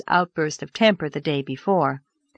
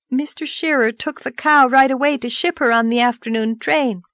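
put-on high girlish voice, earnest and hurried; anxious girl confessing in a rush; Anne's girlish voice; 6 semitones higher than usual. Anne confesses selling the cow, high earnest girlish voice. Anne tells her story.

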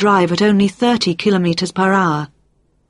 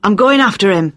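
shouting; 3 semitones higher, 4 dB louder than usual. A narrator's reading. Urgent chase, shouting.

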